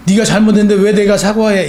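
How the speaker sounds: loud mock protest; indignant retort. Preacher acting someone refusing to apologise, indignant. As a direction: push it out as an acted, indignant comeback.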